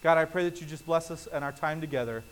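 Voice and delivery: soft, earnest pastor's prayer; closing prayer. Acted. Pastor praying over the church at the close, soft and earnest. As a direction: pray quietly over the congregation.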